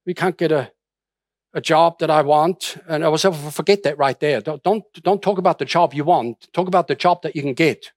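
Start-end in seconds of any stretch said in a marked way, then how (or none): none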